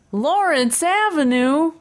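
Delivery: high, drawn-out, knowing call; playful high-pitched recognition; calling out the culprit. Acted. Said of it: "would say".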